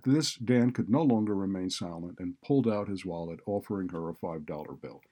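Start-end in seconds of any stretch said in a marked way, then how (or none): none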